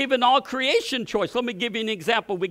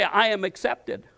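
congregation repeating. Shown as a demonstration. Pastor cueing the congregation to repeat, declared plainly. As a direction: call for the church to repeat.

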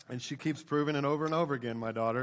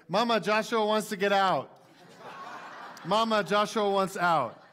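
put-on higher and louder, a sweet tattling little girl; imitating toddler daughter; 7 semitones higher, 5 dB louder than usual. Father imitates his little daughter calling her mom, sweet tattling voice. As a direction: play the two-year-old calling innocently for mom. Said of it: "she's like".

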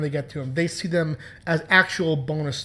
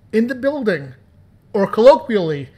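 hype announcement; 5 semitones higher, 7 dB louder than usual. Acted. Hyping up the guest's arrival.

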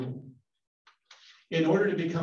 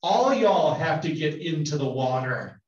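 louder Southern drawl on all y'all and the whole line; 5 dB louder than usual. Retold or imitated. Teacher playing John the Baptist in a Southern accent. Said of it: "in good Southern drawl".

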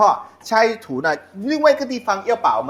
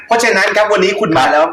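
excited shout; 5 semitones higher, 7 dB louder than usual. Real, not acted. Host welcomes guest, calls out.

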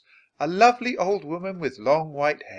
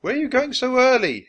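higher, louder call from another room; 11 semitones higher, 5 dB louder than usual. Acted. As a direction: call out to the kids from the living room. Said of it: "his dad called".

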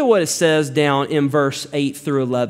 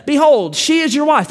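stern rebuke; 9 semitones higher than usual. Acted. King Abimelech confronting Isaac, stern raised rebuke. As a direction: confront him as the angry king.

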